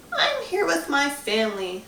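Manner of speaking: put-on old lady ghost. A narrator's reading.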